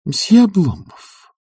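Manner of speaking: stern formal address. A narrator's reading. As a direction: start a severe reprimand. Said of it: "строго начала она".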